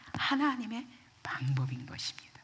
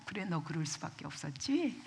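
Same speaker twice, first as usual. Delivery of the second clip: softer, lower reassurance; understanding, not scolding; 4 semitones lower, 8 dB quieter than usual. Acted. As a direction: let him off softly. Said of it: "더 이상 야단 안 치셔요". (야단치지 않고 낮고 부드럽게 달래듯)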